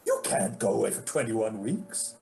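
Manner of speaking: mimicked agent's protest, mildly put out; displeased agent. Agent objects to client's long absence, mildly displeased. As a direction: lightly imitate an objecting agent. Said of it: "she was not pleased with me".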